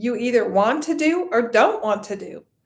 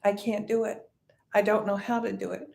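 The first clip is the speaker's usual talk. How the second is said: understated, softer helpless self-talk; playing the victim; 3 semitones lower, 6 dB quieter, faster than usual. Teacher voicing stories we tell ourselves, mildly defeated. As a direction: lightly act defeated, dropping low and quiet. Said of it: "make ourselves feel like a victim".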